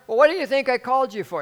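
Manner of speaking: high, loud exasperated retort; imitated bawling out. Lady scolding the pastor, imitated exasperated bawling. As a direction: snap back loudly, mock outrage. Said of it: "bawling me out".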